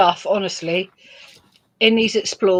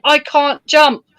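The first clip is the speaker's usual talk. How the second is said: slow, higher-pitched mock protest; mock scream; 5 semitones higher, 4 dB louder, slower than usual. Wife stuck at the fence, mock screaming. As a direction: play up a mild retold scream. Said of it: "And I'm screaming".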